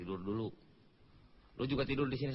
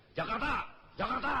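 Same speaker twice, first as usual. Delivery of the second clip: high-pitched bus conductor's call; demonstrated tout's call; 9 semitones higher than usual. Shown as a demonstration. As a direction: call out for passengers, pitched well up. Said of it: "sepanjang jalan lu teriak-teriak". (contoh seruan kenek bernada tinggi)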